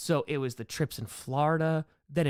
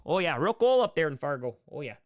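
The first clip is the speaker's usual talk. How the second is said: put-on Fargo accent; 3 dB louder than usual. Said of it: "turn into Francis Dorn from Fargo".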